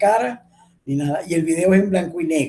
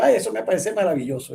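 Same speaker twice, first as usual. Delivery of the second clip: quick mock-delighted sarcasm; sarcastic; 3 semitones higher, faster than usual. Shown as a demonstration. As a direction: say it fast with mild sarcasm. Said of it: "Yo puedo decir sarcásticamente". (con sarcasmo)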